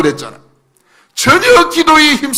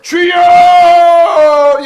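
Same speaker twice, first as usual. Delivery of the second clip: loud, high, long-drawn cry; sustained fervent call; crying out to God; 7 semitones higher, 5 dB louder, much slower than usual. Acted. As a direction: hold the word in a full-voiced prayer shout. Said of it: "하나님 앞에".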